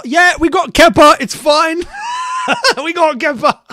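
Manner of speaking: high, mock-cheerful voice breaking into laughter; high-pitched, laughing mock reassurance; laughing self-mockery. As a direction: mimic your own confidence, cracking up. Mocking own praise after keeper's blunder.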